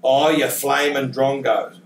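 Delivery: slow, drawn-out classic Aussie exclamation; a hint of an Aussie icon's catchphrase; Alf Stewart. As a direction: lightly imitate an old-time Australian character. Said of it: "And he says a thing like".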